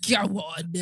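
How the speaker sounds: breathy whispered go-ahead. Real, not acted. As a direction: whisper it conspiratorially. Whispered after repeated banter.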